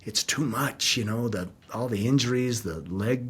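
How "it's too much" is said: hushed despair. Retold or imitated. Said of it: "I'm like".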